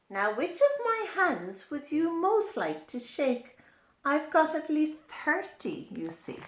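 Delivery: a hint of a jolly, polite centipede; friendly centipede. Centipede greeting the child, lightly voiced and friendly. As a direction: greet them warmly like a new friend.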